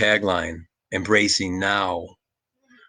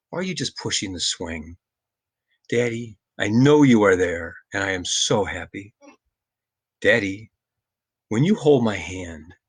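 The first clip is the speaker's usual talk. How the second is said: poem reading. Acted. Father reading his poem to listeners, gently. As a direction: read it like a lullaby dialogue.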